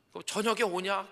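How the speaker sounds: keen to see her son tonight; eager mother. Retold or imitated.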